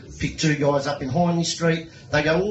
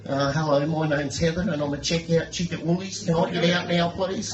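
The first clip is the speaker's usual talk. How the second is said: nervous voice; 2 semitones higher than usual. Acted. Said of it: "I hear this real nervous voice".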